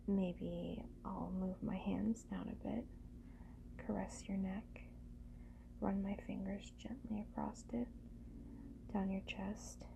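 soft, whispery, unhurried murmur; intimate murmur. Acted. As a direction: murmur close and gently. Slow intimate murmuring to partner.

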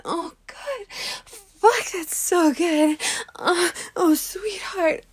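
moaning, pitch climbing; high breathy cries. Acted. Climax cries in roleplay.

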